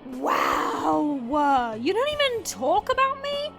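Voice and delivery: rising, incredulous question; mock offended. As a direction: act wounded at being left out, pitch climbing. Mock offended at being unmentioned.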